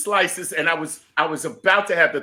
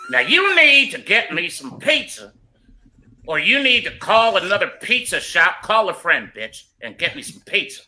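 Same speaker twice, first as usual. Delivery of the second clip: mock angry demand; 4 semitones higher than usual. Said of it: "I was like".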